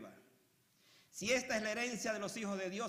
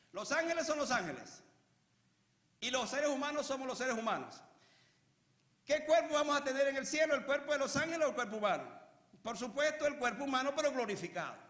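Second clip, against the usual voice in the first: raised, insistent pulpit voice; emphatic preaching; 6 semitones higher, 6 dB louder than usual. Real, not acted. Preacher correcting ideas about angels, emphatic preaching. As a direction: drive the distinction home to the congregation.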